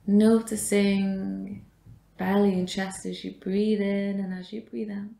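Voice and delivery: measured meditation guidance with long pauses; guided meditation. Real, not acted. Yoga teacher guides a class resting in supported fish, guided meditation. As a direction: guide the breath, leaving space after each phrase.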